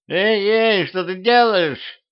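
high-pitched alarmed squawk; yelling in alarm. A narrator's reading. Blonde head grabbed by the hair, yelling in alarm. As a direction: cry out in protest, pitch shot right up. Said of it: "заорала голова".

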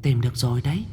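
high, soft little demon voice; giggling mutter. Acted. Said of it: "nghe con tiểu quỷ vừa cười khúc khích, miệng lẩm bẩm".

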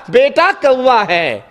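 put-on slow, gentle, loving reply to a child; lovingly patient. Father patiently answering his small son, slow and tender. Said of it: "سات مرتبہ پیار سے کہا تھا".

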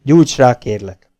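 falsely friendly captain. Acted. Captain coaxing the prisoner after hitting him, mock-friendly. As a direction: win him over with fake warmth. Offers a cigarette.

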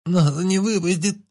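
high, slow, choked-out cry; strangled, frightened. A narrator's reading. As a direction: squeeze it out through a tight throat. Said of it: "сдавленно проговорила женщина". (сдавленно и испуганно, высоко)

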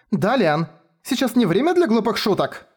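high panicky squeal; shrieking. A narrator's reading. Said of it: "взвизгнула Шура". (на грани паники, взвизгнув)

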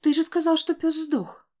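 high, loud disbelief; shocked exclamation. A narrator's reading. Grandmother tells Matt the dog was dead, shocked.

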